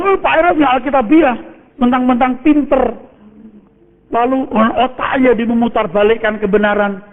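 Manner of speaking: high, indignant mock complaint; angry objector. Preacher mimics a pastor angered by his teaching, indignant. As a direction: imitate an offended critic, pitched well up. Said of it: "Kalau seandainya dia marah".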